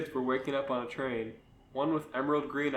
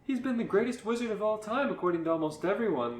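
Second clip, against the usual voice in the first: put-on higher-pitched storybook girl, easing down; girl's character voice; 7 semitones higher than usual. A narrator's reading. Girl tells Harry about the great wizard, character voice. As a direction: declare it in a raised character voice. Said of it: "Luna answered".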